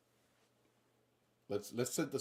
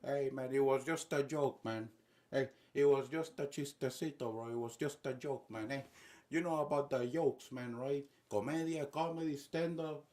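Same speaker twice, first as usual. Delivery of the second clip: lightly voiced nervous begging; mock pleading, hesitant and placating; Nicolás Maduro. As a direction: backpedal apologetically in a put-on accent. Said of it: "just begging Donald, like".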